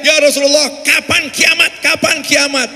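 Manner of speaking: imitating a villager yelling his question; retold yelling. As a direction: demand an answer from the back of the crowd. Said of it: "Dia teriak-teriak".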